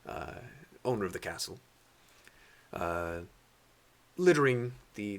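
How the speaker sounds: measured scene-setting storyteller voice; game master narration. Acted. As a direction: set the scene slowly for the party.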